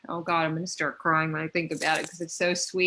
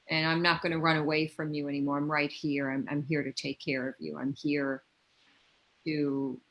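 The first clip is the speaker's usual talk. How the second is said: put-on soft, gentle and reassuring to a scared inner child; tender self-talk; 3 semitones lower, 4 dB quieter than usual. Speaking to her inner child, softly reassuring. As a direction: comfort a hurt little one.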